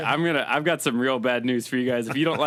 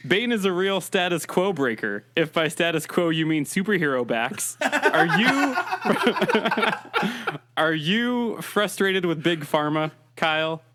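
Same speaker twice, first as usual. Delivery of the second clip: muffled Bane voice through cupped hands; hands cupped over mic. Acted. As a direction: talk into your hands, lightly as Bane. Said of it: "is me talking into my hands".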